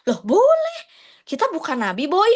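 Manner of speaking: high, casual reassurance; breezy friend. Acted. Answering a friend who asks about her prayer, breezy. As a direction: toss it off like a chill friend. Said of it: "Boleh nggak kayak gitu?".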